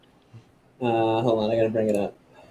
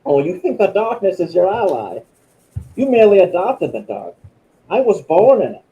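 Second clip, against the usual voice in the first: Bane voice; 5 semitones higher than usual. Pretend. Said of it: "his voice is even higher than that".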